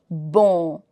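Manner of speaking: low, nasal Bon with no sounded N; nasal vowel. Shown as a demonstration. Teacher repeats the nasal sound for learners, nasally. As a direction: let "Bon" end in the nose. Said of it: "it's a nasal sound".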